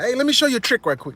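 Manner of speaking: slick offer. Retold or imitated. Carlito distracting the thugs, fast high eager voice. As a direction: hustle them into watching. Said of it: "Carlito was like".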